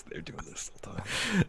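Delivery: unvoiced laughing whisper. Real, not acted. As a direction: breathe it through a laugh.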